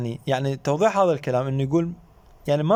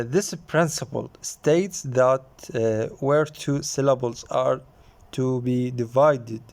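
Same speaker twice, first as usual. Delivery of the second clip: slow dictation reading; 2 semitones lower, much slower than usual. Shown as a demonstration. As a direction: read the rule out word by word, very slowly. Teacher reads English rule slowly. (قراءة بطيئة جدًا كإملاء)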